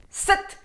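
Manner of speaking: Sat punched high and loud; Sat with a navel contraction; sharp Sat. Shown as a demonstration. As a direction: hit Sat hard off the teeth. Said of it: "So it's a very sharp".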